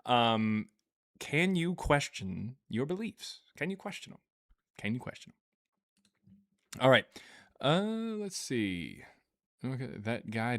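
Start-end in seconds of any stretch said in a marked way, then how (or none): 1.2-3.4 imitating Thrail. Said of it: "has said before". 3.6-4.2 imitating Thrail. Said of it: "has said before". 4.8-6.4 slow, soft mock Thrail take; slow the line down like Thrail; Thrail impression. Streamer retelling Thrail's question, slow mock impression. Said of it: "has said before".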